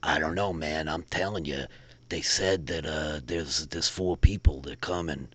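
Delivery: low, quiet muttering of a nervous local; muttering sewer dweller. Acted. Nervous sewer dweller warning his friend, quiet mutter. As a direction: mutter it under your breath like he's spooked. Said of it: "you hear the, like, muttering of".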